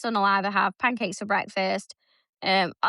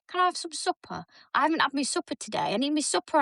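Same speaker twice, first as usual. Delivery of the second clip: put-on higher kid voice, pleading; imitating her son; 4 semitones higher than usual. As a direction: beg sweetly like a hungry boy. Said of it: "Now it's like".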